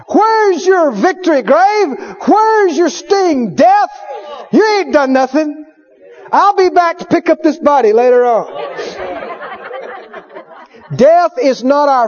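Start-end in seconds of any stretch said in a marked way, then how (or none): 0.1-8.7 defiant taunt. Pretend. Preacher taunting death, high and defiant.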